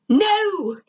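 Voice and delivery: sharp high scream of refusal. A narrator's reading. Zim screams no at the narrator. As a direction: Zim screams it, rejecting the demand. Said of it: "Zim screamed".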